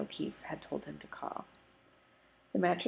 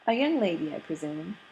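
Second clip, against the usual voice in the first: teasing salesman; 6 dB louder than usual. Acted. Mr Green teasing Adam about his lunch date, lightly voiced jovial tease. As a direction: needle him with a wink in the voice.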